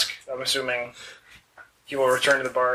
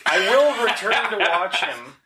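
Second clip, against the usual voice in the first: slow, higher cat-folk voice; Khajiit voice; 4 semitones higher, slower than usual. Acted. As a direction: speak slowly as the Khajiit. Khajiit character speaking in role.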